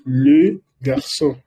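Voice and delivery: le garçon with a rounded French le; French pronunciation. Shown as a demonstration. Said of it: "Eso se dice". (le garçon con pronunciación francesa)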